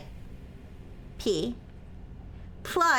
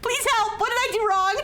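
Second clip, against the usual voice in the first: mock pleading; 10 semitones higher than usual. Mock pleading to chat for help.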